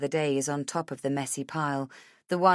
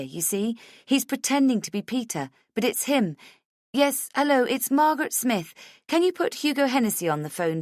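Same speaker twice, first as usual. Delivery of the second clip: frantic urgency; 6 semitones higher, 5 dB louder than usual. Acted. Frantic phone call to Hennessy.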